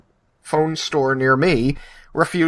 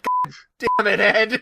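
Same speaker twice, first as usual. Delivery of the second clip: mock exasperation; 11 semitones higher than usual. Exasperated retort at Ed.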